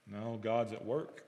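hushed certainty, each word slow; quiet and slow. Real, not acted. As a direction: drop low and slow it right down. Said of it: "preacher's quiet emphatic answer".

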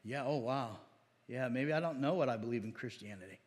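low, quiet, dazed mock of a stumped Christian; stumped believer. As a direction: lightly play the believer lost for answers. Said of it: "people are like".

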